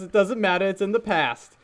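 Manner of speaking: a hint of a dismissive character voice; Rafiki. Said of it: "Rafiki voice".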